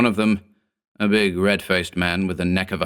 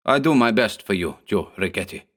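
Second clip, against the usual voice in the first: lightly voiced broken English; a hint of a heavy immigrant accent; broken dialect. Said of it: "in his broken dialect".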